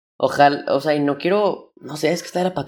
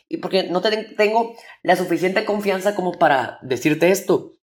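talking too fast; 3 semitones higher than usual. Retold or imitated. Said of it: "empecé a hablar muy rápido".

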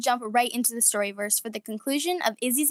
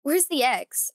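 chuckling; slower than usual. Acted. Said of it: "she thought with a chuckle".

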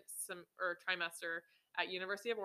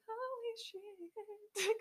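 much higher, very slow drawn-out exclamation; stunned holy shit; 4 dB quieter, much slower than usual. Retold or imitated. Realising the scholarship is gone, drawn-out stunned exclamation. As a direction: stretch it out in disbelief. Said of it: "I was just like".

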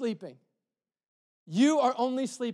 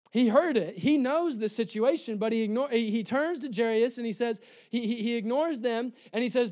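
ordinary talk

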